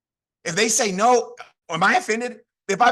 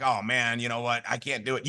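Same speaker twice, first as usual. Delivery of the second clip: low, soft defeated mumble in imitation; mock discouragement; 8 semitones lower, 5 dB quieter than usual. Voicing listeners who think they can't, mock discouraged. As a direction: imitate someone giving up, pitched down and quiet.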